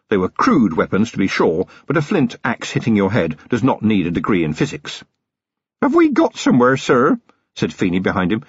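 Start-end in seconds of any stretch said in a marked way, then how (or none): 5.8-7.2 high-pitched, anxious question; nervous young constable. A narrator's reading. Feeney behind Vimes, who stopped walking, nervous.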